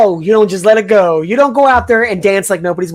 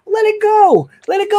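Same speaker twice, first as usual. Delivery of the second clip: high, lilting let it go; sing-song it up high like a chant; playful high-pitched urging; 11 semitones higher than usual. Acted. Urging friend to relax.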